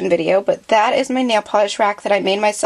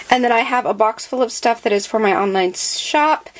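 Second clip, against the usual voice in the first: breathless from talking nonstop; winded, short on air; out of breath. Real, not acted. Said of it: "I'm getting out of breath already".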